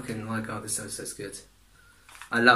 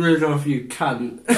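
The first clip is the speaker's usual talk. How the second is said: laughing curse; 3 semitones lower, slower than usual. Real, not acted. Real outburst while laughing.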